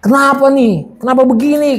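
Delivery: high-pitched retold protest; questioning God. Hurt believer asks God about everything, in high protest. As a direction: demand an answer in a high, plaintive voice. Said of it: "semua saya tanya sama Tuhan".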